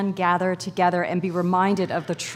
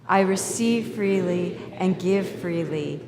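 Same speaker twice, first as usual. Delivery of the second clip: slow, measured prayer read aloud; group prayer; slower than usual. Acted. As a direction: lead the room through the prayer calmly, slowly. Leads the congregation in prayer.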